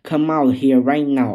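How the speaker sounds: furious shout through the door; yelling. Acted. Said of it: "pound my door and yell at me".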